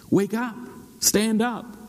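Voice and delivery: high-pitched wake-up call; rousing call. Acted. Preacher rouses the sleeper from scripture, calling out high.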